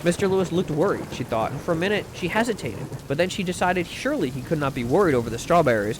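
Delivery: measured, softly read storytelling; audiobook-style reading with light dialogue; story narration. A narrator's reading. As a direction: read it aloud like a genteel short story. Reads a short story aloud.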